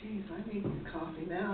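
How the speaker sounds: talking through a yawn. Real, not acted. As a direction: yawn while you say it. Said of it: "I'm yawning".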